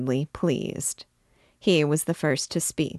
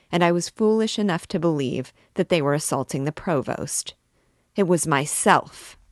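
a king realizing the mob attacks him; trembling rage. Acted. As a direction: let the fury rise line by line. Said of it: "pale and trembling with rage".

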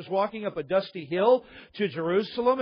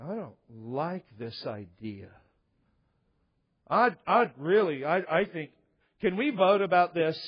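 reluctant disciple; 3 semitones lower than usual. Retold or imitated. Disciples balking at Christ's plan, low and sheepish. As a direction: balk at the plan timidly. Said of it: "the disciples are going".

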